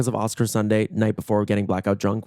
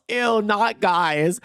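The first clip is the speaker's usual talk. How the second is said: mock disgust; 8 semitones higher, much slower than usual. Lesbian girl mocks men.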